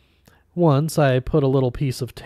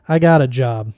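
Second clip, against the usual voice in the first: curt brush-off; 7 dB louder than usual. Acted. Brushing off phone scam.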